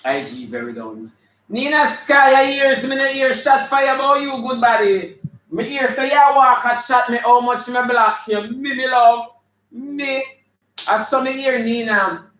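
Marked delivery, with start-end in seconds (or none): 1.5-12.3 high, loud, excited-sounding call-out. Real, not acted. Host hailing Nina Sky about being blocked, loud high calling out. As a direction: holler it at full voice, pitched way up. Calling out a viewer joining live.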